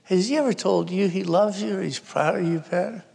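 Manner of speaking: mock tearful question, no real sobs; retold weeping. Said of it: "she's crying and weeping, and she says".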